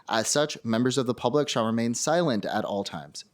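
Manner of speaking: official opening statement read-out; formal hearing script. Real, not acted. Chair opens public testimony, formal read-out.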